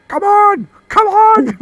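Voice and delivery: very high, loud battle yell; hammed-up Glaswegian thug shouting a challenge; thug's taunt. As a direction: goad them at full volume. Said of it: "ducking and weaving and going".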